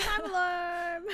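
slow, high playful echo; slow drawn out. Real, not acted. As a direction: drag it out slowly. Echoing joke.

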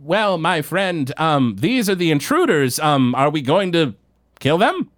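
a hopeful little monster asking permission; eager goblin henchman. Acted. Blorgzak asking his ally about the intruders, high eager creature voice. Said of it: "Blorgzak is like".

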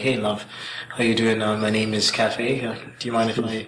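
put-on casual, subtle British accent. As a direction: chat her up in an understated British accent. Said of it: "do my fucking British accent".

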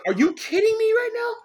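can't believe your luck; stunned disbelief. Retold or imitated. Recalling seeing six strobe lights in the photos, shocked and thrilled.

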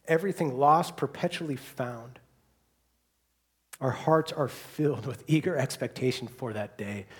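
measured, reverent public prayer; leading prayer. Real, not acted. Pastor thanking the Father for living hope, prayerful.

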